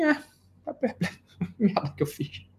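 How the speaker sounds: soft, stunned muttering with a laugh; mock perplexed mutter. Politician caught and stunned at himself, hushed mock mutter. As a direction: mutter it like you just realised the mess. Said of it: "Falei assim".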